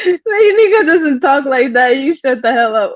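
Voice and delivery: high, amused telling-off; mock scolding. Telling the troll to shut up, amused mock scolding.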